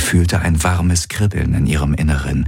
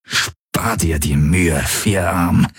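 strained; much slower than usual. Acted. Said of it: "sagte Valyr angestrengt".

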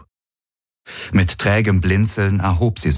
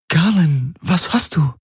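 startled Ylana; 11 semitones higher than usual. Acted. Ylana startled by his pain.

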